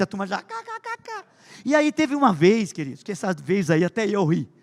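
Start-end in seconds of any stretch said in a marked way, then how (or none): 0.4-1.2 high, soft imitated giggle; mock class laughter. Pastor imitating classmates giggling at his name.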